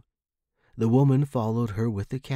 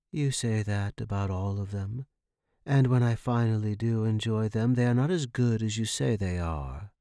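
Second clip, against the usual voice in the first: moaning complaint. Acted. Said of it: "the woman moaned".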